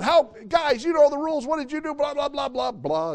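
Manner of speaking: high, loud mock parent lecture; scolding parent. A parent scolding the kids over broken rules, mock lecturing. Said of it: "as parents".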